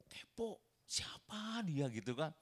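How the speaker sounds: slow, high whispered nosiness; gossipy onlooker's whisper; nosy whisper. Retold or imitated. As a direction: whisper like a curious gawker.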